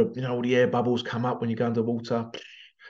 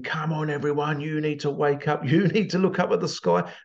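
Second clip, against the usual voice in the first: retold mild shouting; 4 semitones higher than usual. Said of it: "shouting and screaming".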